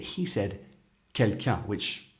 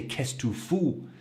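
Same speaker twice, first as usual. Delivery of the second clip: stronger tone; 5 semitones higher than usual. Shown as a demonstration. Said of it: "a lot stronger".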